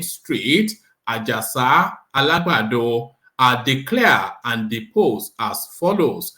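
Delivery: measured, declamatory affidavit reading; formal legal reading. Acted. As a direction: read it out phrase by phrase like a solemn court document. Reads a legal document aloud.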